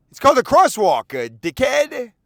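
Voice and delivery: loud, high yell, slowing on the insult; angry yelling driver. Retold or imitated. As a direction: spit out the last word. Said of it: "Something like that".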